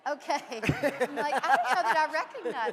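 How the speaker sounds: loud, high, laughing through the words; real laughter while talking. Real, not acted. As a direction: crack up as you get the line out. Teasing over photo, breaks into laughter.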